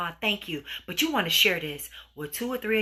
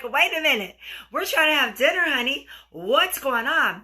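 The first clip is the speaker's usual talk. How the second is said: raised, louder acted protest; mock indignation; 5 semitones higher, 4 dB louder than usual. Woman to partner whose phone interrupts dinner, acted indignation. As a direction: object like an annoyed dinner date.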